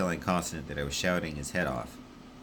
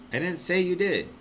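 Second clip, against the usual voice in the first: much higher, snapping back; exasperated Constant; 12 semitones higher, 4 dB louder than usual. Acted. Constant snapping at Wish, higher. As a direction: bite back in irritation.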